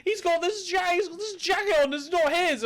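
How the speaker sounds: high, whiny tattletale; snitch voice. Retold or imitated. Snitch telling the bouncer, high and whiny. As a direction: mimic a prissy snitch. Mocks the accuser.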